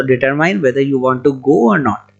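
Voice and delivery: English sentence said very slowly; slow example sentence. Shown as a demonstration. Teacher reading an English example slowly to the class. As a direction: stretch out the model sentence. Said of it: "जैसे आपको जाना है".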